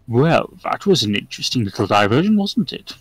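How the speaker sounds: brisk devil remark, lilting up at the end; urbane devil Asmodeus. Acted. Devil remarking on the vision to onlookers, lightly arch.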